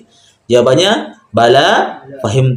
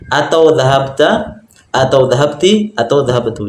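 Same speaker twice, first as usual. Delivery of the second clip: slow demo reading. Shown as a demonstration. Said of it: "bisa dibaca dhahabat kalau tidak ada harokatnya".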